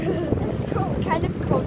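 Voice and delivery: loud shiver at the cold; cold water yelp. Real, not acted.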